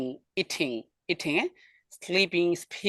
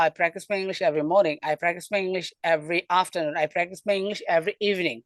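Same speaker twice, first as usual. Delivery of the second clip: slow demo; slower than usual. Shown as a demonstration. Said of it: "এখান থেকে দেখাই".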